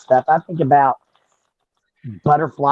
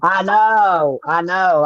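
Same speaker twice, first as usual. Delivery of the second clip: easy, natural Southern US accent; 3 semitones higher, much slower than usual. Real, not acted. Woman agreeing she sounds Southern, Southern accent. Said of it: "I can get my Southern accent going".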